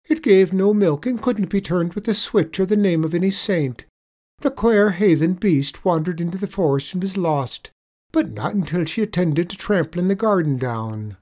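leprechaun telling a pitiful tale. A narrator's reading. Leprechaun tells sad tale.

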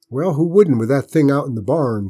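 tense, anxious woman's voice; fretful aunt. A narrator's reading. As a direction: snap it out worried and sour.

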